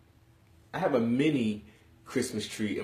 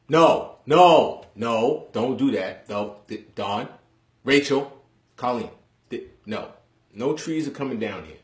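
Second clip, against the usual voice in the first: loud protesting no, higher and louder; shouting at family; 4 semitones higher, 13 dB louder, slower than usual. Real, not acted. Yelling at family not to touch the tree, loud protest. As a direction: yell up at the family to stop.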